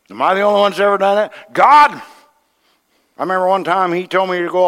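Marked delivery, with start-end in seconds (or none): 1.5-2.0 loud, high, whining protest; hammed-up complaint; mock exasperated cry. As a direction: wail at God like a kid. Protesting to God.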